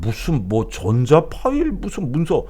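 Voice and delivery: lightly voiced blunt leader; imitating the president. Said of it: "윤석열 대통령이 깜짝 놀랄 얘기를 하는 거지".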